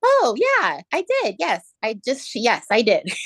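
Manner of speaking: high, surprised yes; caught off guard. Retold or imitated. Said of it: "And I said".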